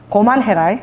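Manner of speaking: put-on Gyeongsang-accented father's command; mildly acted Gyeongsang father; Gyeongsang dialect. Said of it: "경상도 말로".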